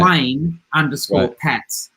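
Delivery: slow, deliberate handle readout; plain underscore Pats given slowly, word by word; spelled out slowly. Shown as a demonstration. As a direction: read plain underscore Pats slowly so people can type it. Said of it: "Twitter handle".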